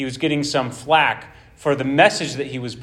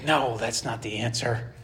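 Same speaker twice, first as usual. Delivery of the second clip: proud dismissal; 6 semitones lower, 8 dB quieter than usual. Retold or imitated. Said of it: "in their pride, they're gonna say".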